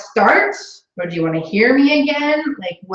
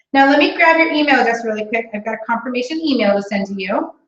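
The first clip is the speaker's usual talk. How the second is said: bubbly sales call; 4 semitones higher than usual. Shown as a demonstration. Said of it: "I wanna hear you again".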